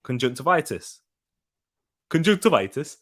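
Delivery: repeated Geordie pronunciation demo; playful go at sounding Geordie; Geordie accent. Shown as a demonstration. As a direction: try the Geordie lilt, pausing between attempts. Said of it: "it comes out Geordie".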